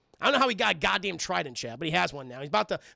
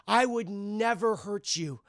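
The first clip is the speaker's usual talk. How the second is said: slow sinister take; slower than usual. Retold or imitated. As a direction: draw it out like a false promise. Norman's line, slow delivery.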